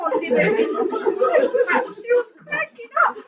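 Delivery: high and loud; excited laughter. Real, not acted. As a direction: still laughing as you speak. Laughing while telling.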